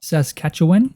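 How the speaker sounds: Saskatchewan? with a rising, doubtful tune; unsure pronunciation. Real, not acted. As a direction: ask Saskatchewan? as if checking how it's said. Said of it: "Is that how you say it?".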